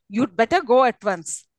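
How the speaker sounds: "you'd better go at once" falling to the end; falling close on "once". Shown as a demonstration. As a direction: let "at once" drop in pitch. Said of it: "It's again a fall".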